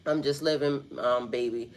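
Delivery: low, soft hippie smooth-man voice; lightly put-on smooth hippie man. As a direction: play a mellow hippie, smooth and hushed. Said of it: "in my hippie smooth man voice".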